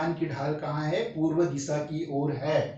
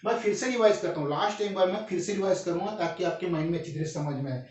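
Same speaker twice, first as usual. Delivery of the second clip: fast revision; 2 semitones higher, faster than usual. Shown as a demonstration. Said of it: "इतना fast क्यों बोल रहे हैं".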